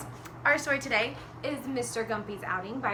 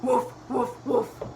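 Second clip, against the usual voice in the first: short puppy barks; dog woofing; slower than usual. Acted. Storyteller lets children hear Puppy's voice, woofing. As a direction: woof like a puppy. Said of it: "It sounded like this".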